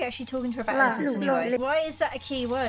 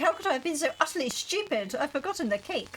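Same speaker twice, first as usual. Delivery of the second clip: a light posh gentleman, panicking; lightly voiced posh fretting over the cake; 4 semitones higher than usual. Fussy planner who forgot the cake, in a mild posh voice. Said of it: "I've gone into a really posh voice".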